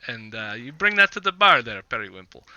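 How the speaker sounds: lightly voiced Vistani host; Vistani giving orders. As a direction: send companions off in a lilting voice. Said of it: "It's like".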